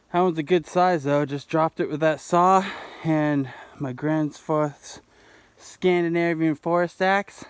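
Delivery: talking around whitening strips. Real, not acted. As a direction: mouth full of teeth strips. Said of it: "I actually have some whitening strips on".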